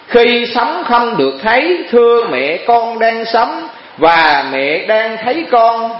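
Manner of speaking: slow, lightly voiced young monk asking his mother; a hint of a bewildered novice monk; puzzled young novice. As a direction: gently ask your mother why she weeps. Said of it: "thầy Sa Di mới lấy làm lạ hỏi".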